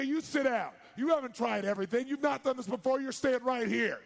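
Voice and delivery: loud, high, forceful order; retold scolding, hammering each phrase; stern command. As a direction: lay down the law at full volume. Retold doctor orders patient back.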